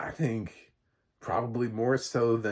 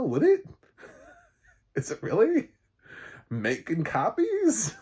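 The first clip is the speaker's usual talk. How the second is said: laughing disbelief; 6 dB louder than usual. Real, not acted. Mocking Schneider's gag, laughing.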